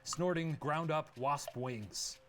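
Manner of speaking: slow, deliberate question read; quiz host read. Acted. Host reading the quiz question to players, slow and deliberate. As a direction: announce the options like a game show host.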